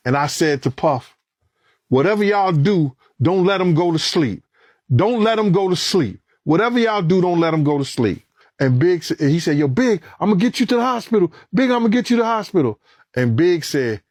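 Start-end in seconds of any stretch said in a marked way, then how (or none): 1.9-8.2 high, insistent repeated plea; urgent plea. Retold or imitated. Pleading over wounded friend. 9.6-12.8 high, fast promise to the wounded man; urgent reassurance. Retold or imitated.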